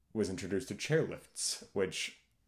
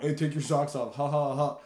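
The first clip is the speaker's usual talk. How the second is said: catchphrase; 4 semitones higher, 6 dB louder than usual. Retold or imitated. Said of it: "I got a problem with catchphrases".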